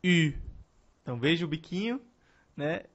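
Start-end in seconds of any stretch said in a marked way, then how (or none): 0.0-0.3 U said as French u, lips rounded in a pout; French u sound, lips rounded. Shown as a demonstration. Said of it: "Então você vai dizer U".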